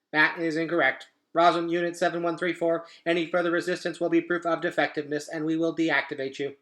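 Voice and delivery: even, mechanical machine read; robot voice. Acted. Robot explaining Roz's fate, mechanical voice. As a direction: recite like a cold robot.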